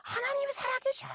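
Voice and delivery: high, loud outraged yell; piercingly pitched shout, retelling his outburst; imitated shouting. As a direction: act out the man's screamed rebuke. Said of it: "막 소리 지르시는 거예요".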